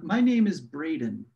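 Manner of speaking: "my name is Braden" said slowly; slow self-introduction. Shown as a demonstration. Speaker showing how Braden introduced himself, slow and careful. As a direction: pronounce "name" carefully as nem. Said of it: "watch my, no".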